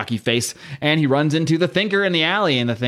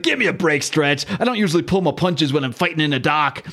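Thing voice; 2 semitones higher than usual. Retold or imitated. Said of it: "This Ben impression is changing".

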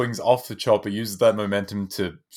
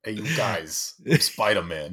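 put-on Brooklyn accent. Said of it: "big Brooklyn".

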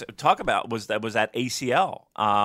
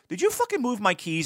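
irritated; 10 semitones higher than usual. Retold or imitated. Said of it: "And then I say".

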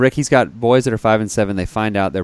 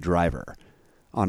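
whispering; 3 semitones lower, 7 dB quieter than usual. Real, not acted. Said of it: "Why are you whispering this?".

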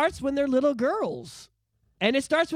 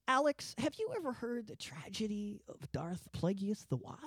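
Palpatine impression; 2 semitones lower, 10 dB quieter than usual. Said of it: "you know what this sounds like?".

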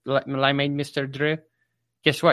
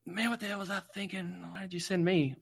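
whiny regret; 7 semitones higher than usual. Retold or imitated. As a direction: moan like you've been tricked. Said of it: "you're like".

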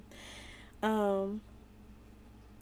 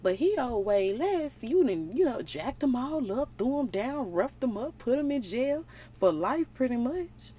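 higher, indignant complaining servants; mild mock outrage; upset servants; 5 semitones higher than usual. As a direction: protest like offended coworkers. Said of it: "they got kinda upset".

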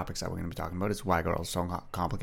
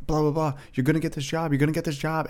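high, pumped-up self pep talk; imitating an excited graduate, much higher; excited hype; 8 semitones higher, 3 dB louder than usual. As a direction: cheer yourself on about the job. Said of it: "you're really, really excited".

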